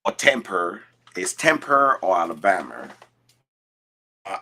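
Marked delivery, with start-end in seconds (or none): 0.1-2.9 "Tamper" and "Alabama" both ending in "-er"; mock British mispronunciation. Teasing the British guy, mispronouncing "Tamper" and "Alabama" his way. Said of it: "this British guy that actually usually cannot pronounce".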